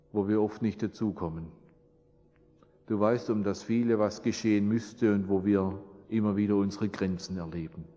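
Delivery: subdued, sincere prayer voice. Real, not acted. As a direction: pray gently, voice sinking at phrase ends. Leads a closing prayer.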